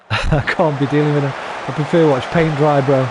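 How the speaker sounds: giggling disbelief; chuckling dismissal of boring sports; laughing. Real, not acted. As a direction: repeat it through a laugh.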